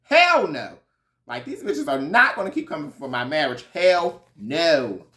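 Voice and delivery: loud, high mock yell of hell no; hammed-up screaming hell no; imitated screaming. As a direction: shout it after her like an outraged castmate. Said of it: "she's just screaming".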